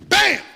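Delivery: loud sharp mock punch; punch bam. Farmer's punch hitting the banker, loud. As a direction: slam it out like a fist landing.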